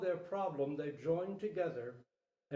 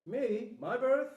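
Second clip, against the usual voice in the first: excited fawn; 8 semitones higher, 7 dB louder, slower than usual. Acted. Fawn eager for birth story.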